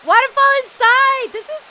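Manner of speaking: high, loud cry of wonder; thrilled, high-pitched outburst; amazed. Real, not acted. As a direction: exclaim in astonishment at the sight. Amazed at indoor waterfall.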